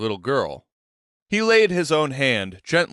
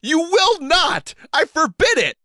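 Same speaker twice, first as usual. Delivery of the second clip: forbidding near-shout; 4 dB louder than usual. A narrator's reading. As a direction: lay down the law at full voice. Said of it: "she almost shouted".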